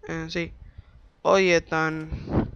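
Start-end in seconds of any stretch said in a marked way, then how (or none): 1.2-2.5 drawn out very slowly; lazy slow call; slow drawl. Shown as a demonstration. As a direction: stretch every syllable of "Oye, Ethan".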